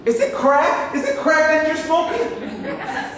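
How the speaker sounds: can't believe what he's hearing; shrill-edged mock outrage at the bet; incredulous outrage. Real, not acted. Outraged disbelief at car bet.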